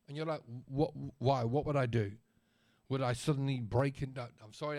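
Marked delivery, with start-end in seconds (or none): 0.7-4.2 sarcasm. Retold or imitated. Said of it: "that sarcasm".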